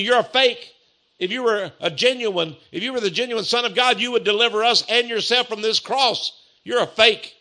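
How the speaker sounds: retold accusation, thrown in his face; preacher imitating a scornful thief; taunting. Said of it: "began to put it right in Jesus' teeth".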